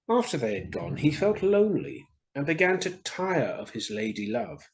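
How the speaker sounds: put-on gentle storytelling voice for children; story narration. A narrator's reading. The speaker reading a fairy tale to children, storytelling. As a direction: read it like a bedtime story.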